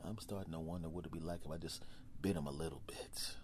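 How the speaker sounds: low, soft, conspiratorial predator voice; lion quietly plotting a bite; scheming lion. Acted. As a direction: mutter like a beast plotting its owner's end. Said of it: "is gonna start saying".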